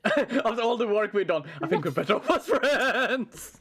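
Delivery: giggling mock breakup line; laughing through words. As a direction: say it while laughing.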